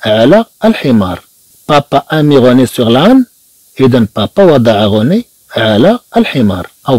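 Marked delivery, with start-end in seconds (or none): 1.7-3.3 slow, clear French; slow model reading. Shown as a demonstration. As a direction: stretch each word for the class. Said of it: "teacher models slow French reading".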